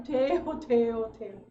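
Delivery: joyful breakthrough. Retold or imitated. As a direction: exclaim each word with rising joy.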